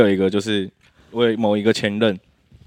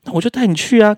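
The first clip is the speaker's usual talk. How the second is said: louder and higher, fed up; exasperated outburst; 10 semitones higher, 6 dB louder than usual. Real, not acted. Venting to guests about ex, exasperated louder outburst. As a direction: throw your hands up, I'd have taken you.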